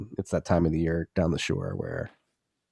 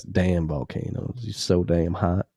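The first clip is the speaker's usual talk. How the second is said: sexy voice. Pretend. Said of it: "I had to say this in a sexy voice".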